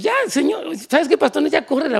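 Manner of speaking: high, whiny complaint to the pastor; mock fed-up disciple; impatient church helper. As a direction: hurry the pastor to send her away. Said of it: "Tú dices".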